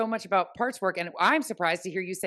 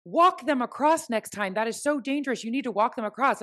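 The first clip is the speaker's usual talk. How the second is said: retold crossing guard yell; 4 semitones higher than usual. Crossing guard scolds mom for not walking kids across, mock yell. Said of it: "she yells".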